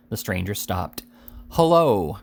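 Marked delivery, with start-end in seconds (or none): 1.5-2.2 louder, higher, curt hello; gruffer shout. A narrator's reading. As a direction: bark it harder this time. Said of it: "repeated Sam still more gruffly".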